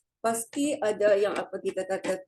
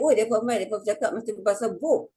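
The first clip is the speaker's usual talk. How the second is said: Kedah dialect; much faster than usual. Retold or imitated. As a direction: tease in Kedah dialect, fast. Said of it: "Kalau saya balik". (loghat Kedah mengejek dengan laju)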